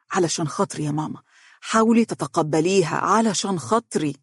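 gently coaxing son; understated, earnest appeal; pleading. Acted. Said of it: "وقال برجاء".

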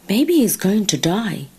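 lightly voiced bird with a lilting rise and fall; a hint of a chirp, slightly lifted. Bird speculating about the suffering crocodile, lightly chirped. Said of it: "chirped a bird".

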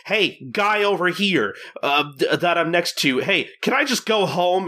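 high-pitched, worked-up comic grumbling; mock exasperated rant. Gin griping on the road about the heat, mock exasperation. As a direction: play up the petty fury, pitched well up.

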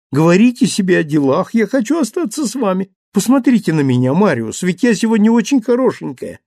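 high, loud playful insistence; coaxing young wife. A narrator's reading. Cosette coaxing father and husband, high and loud. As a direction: charm them into letting her stay.

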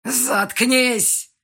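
loud furious roar. Acted. Yan roaring at the heroine to shut up. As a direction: bellow him into silence. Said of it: "взревел Ян".

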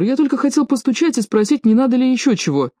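high, pleading excuse; high anxious servant. A narrator's reading. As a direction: wheedle like a scared servant. Servant voiced making excuses.

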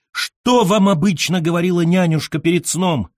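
high-pitched, overwrought plea; trembling howl. A narrator's reading. Admirer begs the poet about his nanny, howling in awe. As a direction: wail the question in quivering suspense. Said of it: "взвыл я трепеща".

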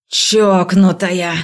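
slow loud shouted insult. A narrator's reading. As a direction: yell it drawn out. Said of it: "крикнул он".

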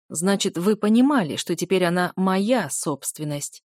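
«собственность» выделено голосом, медленно; нажать на слово «собственность»; ударение на «собственность». A narrator's reading. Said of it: "Демон выделил голосом слово". (слово «собственность» с нажимом)

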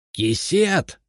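put-on "Кисет!" as a high screeching old man's cry; old man shrieking. A narrator's reading. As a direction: squeal the word "Кисет!" in outrage. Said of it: "завизжал дедушка".

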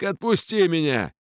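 high, pleading shout to be let go; frantic yell. A narrator's reading. The chained captain yelling at Ellin to free him. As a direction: beg at the top of the voice. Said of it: "безудержно заорал старик".

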